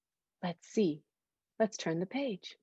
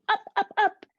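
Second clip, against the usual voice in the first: rising up up; 13 semitones higher, 4 dB louder than usual. A narrator's reading. Narrating the spring upward.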